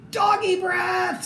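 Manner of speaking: high, slow panicked cry; scared scream. Acted. Mouse soldiers fleeing the dog's breath, high panicked cry. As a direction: shriek it in disgust and fright. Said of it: "screamed the soldiers".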